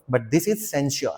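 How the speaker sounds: "censure" said very slowly and clearly; censure, not censor. Shown as a demonstration. Teacher contrasting censure with censor for students. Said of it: "that is censor".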